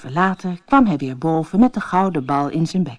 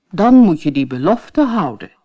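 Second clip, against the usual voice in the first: louder, stern father; stern king; 7 dB louder than usual. Acted. King tells the princess to keep her word, firm and loud. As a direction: lay down the law.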